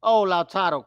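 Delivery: high, loud praise; excited cheer. Real, not acted. Fan cheering Canada's keeper Krupo after a save. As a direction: shout the save with joy.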